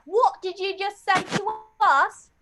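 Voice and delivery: high British outrage, stretched on the last word; mock British accent. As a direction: play an affronted Brit. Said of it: "And the British were like".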